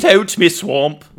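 loud, slow hammed-up bellow; comic drawn-out Scottish yell; mock shout. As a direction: shout it like an outraged Scot. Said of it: "And he shouts".

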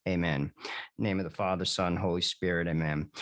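steady recited prayer, led aloud; measured devotional recitation. Acted. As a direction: lead the listeners through the Memorare evenly. Leads the opening prayer.

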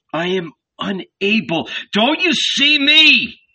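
crying up to the burning heaven; anguished cry. A narrator's reading. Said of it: "he cried".

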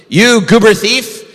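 high, loud ranting accusation; angry fox rant. Acted. Fox yells at bear hanging in trap, ranting loud. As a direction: yell it at the thief, furious. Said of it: "ranted and raved".

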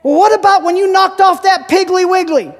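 high-pitched, skeptical movie sidekick; imitating an incredulous pal; challenging companions. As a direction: call out the doubting question. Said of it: "And they said".

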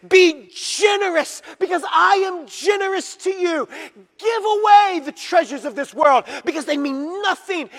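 high, loud preaching shout, slowing down; impassioned shout. Acted. God pleading with the church this morning, shouting. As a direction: cry it out as God's plea.

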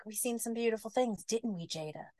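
sweet nothings to a door; tender murmur. Acted. Ted talks to his wigged door, soft and tender.

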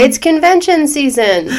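slow, laughing hammed-up enthusiasm; enthusiastic. Shown as a demonstration. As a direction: sell it with over-the-top cheer. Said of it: "say that again with a little more enthusiasm".

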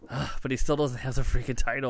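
quick mock-frustrated fan grumble; groan, then rush out the complaint; a touch of fan exasperation; exasperated fan. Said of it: "as a Kenny fan, you're kinda like".

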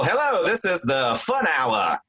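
put-on old-time radio announcer; lightly voiced vintage radio host; 1950s narrator. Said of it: "he probably heard all those old-timey voices".

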